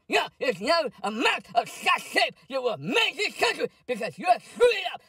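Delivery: shouting, rising anger; angry rant. Pretend. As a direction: yell at him in a rage. Ranting at the president.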